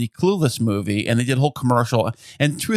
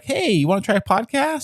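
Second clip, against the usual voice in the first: imitating husband; 9 semitones higher than usual.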